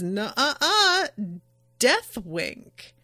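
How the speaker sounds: teasing singsong nuh-uh-uh; playful taunt. Retold or imitated. Iva taunting the gunman, teasing. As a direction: wag a finger with your voice.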